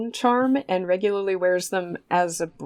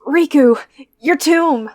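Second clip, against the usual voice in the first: mock lament; 8 semitones higher, 5 dB louder, slower than usual. Hosts mock-mourning Riku's tomb.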